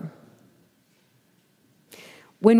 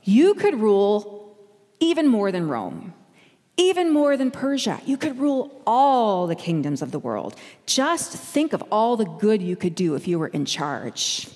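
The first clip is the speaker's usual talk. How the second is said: a lightly voiced tempter, leaning on "even"; devil's offer. The devil offering Jesus the kingdoms, lightly coaxing. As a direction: dangle power like a smooth tempter. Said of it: "He says".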